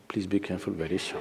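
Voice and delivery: hushed, low warning; retold whisper. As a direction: imitate someone quietly cautioning another. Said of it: "she whispers to him".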